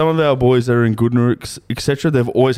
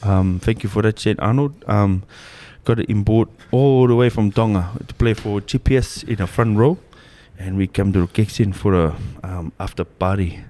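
thick put-on Tongan accent; comic Pacific Islander English; fob accent. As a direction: play a fresh-off-the-boat Islander. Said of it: "the Islander accents".

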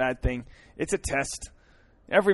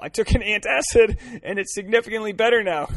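mocking her voice; 6 semitones higher than usual. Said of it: "I love that I'm making fun of her".

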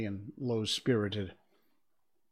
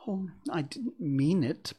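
pleading; 7 semitones higher than usual. Acted. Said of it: "pleaded poor Alice".

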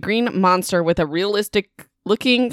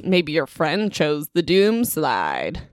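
slow, lower, creepy monster line; ominous horror; 3 semitones lower, 3 dB quieter, slower than usual. Retold or imitated. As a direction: spell doom slowly to scare the kids. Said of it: "the horror says".

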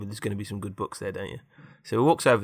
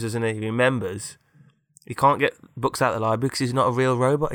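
ordinary delivery

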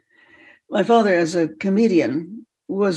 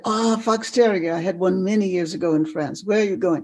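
lightly imitated French accent. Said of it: "in a French accent".

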